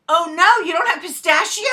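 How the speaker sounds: loud, high, mock-shocked question; mock surprise. Family baiting the waiter into saying it, loud mock surprise. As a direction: fake dismay to bait him.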